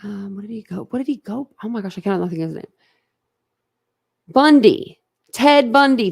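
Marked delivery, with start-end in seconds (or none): 4.3-6.1 sudden recall. Real, not acted. Finally remembers the name.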